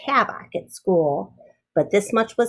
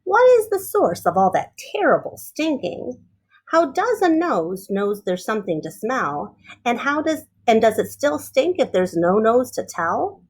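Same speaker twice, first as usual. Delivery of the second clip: put-on wondering child. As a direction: puzzle it out like a curious girl. Ada wondering aloud.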